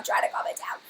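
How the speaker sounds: breathy whisper, calming herself down; whispered to self. Shown as a demonstration. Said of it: "I'm gonna try to calm it down".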